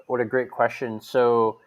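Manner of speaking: normal talking voice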